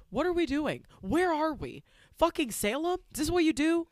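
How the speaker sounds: high, loud incredulous rant; mock outraged yelling. Scolding candy-stealing bullies, high loud outrage. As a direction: yell it like a scandalized auntie.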